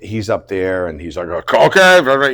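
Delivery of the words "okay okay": loud, drawn-out higher callout; mock shouting. Assistant calling out to the set, shouting. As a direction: imitate a director shouting out orders. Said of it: "and he's shouting out".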